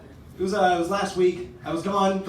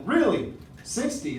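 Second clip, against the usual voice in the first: skeptical cop; 4 semitones higher, slower than usual. Retold or imitated. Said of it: "And he's like".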